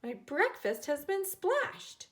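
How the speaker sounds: mildly indignant mother; huffy. A narrator's reading. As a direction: huff about the ruined breakfast. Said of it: "Aka-san huffed".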